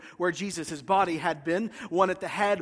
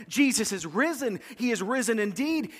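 higher, bright declaration of joy; John telling Peter, higher and eager; excited proclamation; 3 semitones higher than usual. Retold or imitated. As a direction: announce it like breaking news to Peter. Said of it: "Can't you hear him talking to Peter?".

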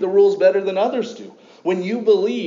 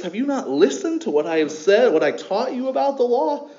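sarcastic Paul. Retold or imitated. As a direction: needle them with a mild sarcastic edge. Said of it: "a little bit of sarcasm in his voice".

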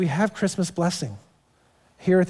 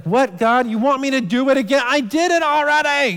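put-on higher childish complaint to God; whiny believer; 8 semitones higher, 4 dB louder than usual. Believer whining to God, high childish complaint. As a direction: whine like the five-year-old inside.

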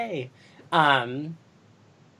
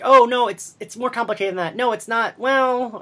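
flustered Buffy; 8 semitones higher, 3 dB louder than usual. Retold or imitated. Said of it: "she's like".

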